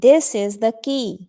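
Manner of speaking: drawn-out, careful phrasing; slow model reading. Shown as a demonstration. Teacher models the sentence slowly for the class. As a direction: say each word slowly to be copied. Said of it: "teacher models the sentence".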